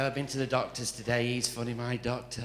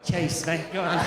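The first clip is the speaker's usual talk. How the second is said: catchphrase; 4 semitones higher, 3 dB louder than usual. Acted. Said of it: "when I first actually said it".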